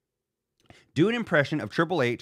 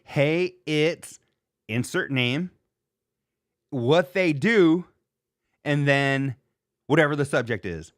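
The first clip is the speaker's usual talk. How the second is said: imitating Rich Davis; slower than usual. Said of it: "all he says is".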